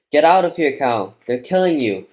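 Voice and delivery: high, loud shouted warning; girl's desperate yell. A narrator's reading. Girl warning a cow of the bombs and shooting, loud yell. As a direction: yell with full urgency to drive it away. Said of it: "The girl yells".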